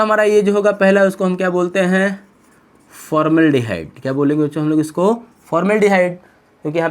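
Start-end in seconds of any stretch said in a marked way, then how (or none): 2.9-4.0 drawn-out naming of the term; slow dictation. Shown as a demonstration. Teacher naming the first aldehyde for students, slow dictation. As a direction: stretch the syllables out for note-takers. Teacher introduces new name slowly.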